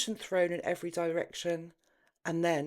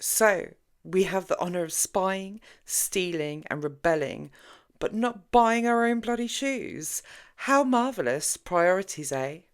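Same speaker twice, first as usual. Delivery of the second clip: snorting sarcasm; 2 semitones higher, 6 dB louder than usual. Acted. Jenny scoffing at Kathy about women's lot, loud and sarcastic. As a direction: scoff at the unfairness. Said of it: "Jenny snorted".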